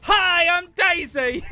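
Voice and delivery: high, slow princess chant; Daisy voice. Retold or imitated. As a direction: sing it out like a smug Princess Daisy. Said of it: "It used to trigger me so much".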